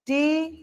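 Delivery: বিউটিফুল split into three separate syllables. Shown as a demonstration. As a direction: break বিউটিফুল apart, pausing after each syllable. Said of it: "কিভাবে ভাঙবো?".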